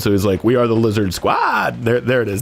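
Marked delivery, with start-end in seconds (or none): 0.4-1.8 held-back shout. Retold or imitated. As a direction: voice crack on a restrained battle cry. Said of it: "trying not to get too loud".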